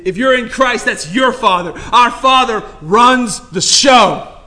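loud, high, ringing sermon delivery; fired-up preacher, rising and pounding the point; preaching at full force. Real, not acted. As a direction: preach it out to the whole room.

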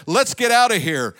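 the Egyptians shouting to flee; mild shout. A narrator's reading. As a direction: call out in alarm. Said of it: "the Egyptians shouted".

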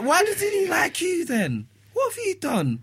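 mocking the dog owner. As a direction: play the owner, affronted and high. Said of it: "She's like".

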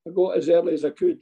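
laughing through a cheeky excuse, quick; a quick laughing mock-polite reply. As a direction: rattle it off fast while laughing.

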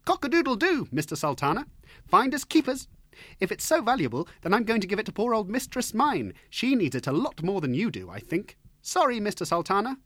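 high, bright-eyed fearless bird voice; cheeky rooster. Acted. Little rooster cheekily refusing the Sultan, high and bold. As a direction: tease him without a trace of fear.

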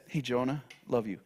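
gentle God. Acted. God speaking gently to Jonah.

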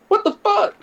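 loud high "what the fuck"; shocked outburst. Retold or imitated. Riding with drinking cousin, loud shocked outburst.

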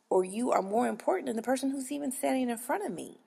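whispered aside. Real, not acted. Clerk venting to viewers in a whisper. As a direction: drop to a pointed whisper.

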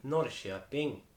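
slow, stretched Östergötland "Norrköping"; Östergötland dialect attempt. Shown as a demonstration. Host tries hometown-area dialect, slow Östergötland accent. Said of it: "östgötska då".

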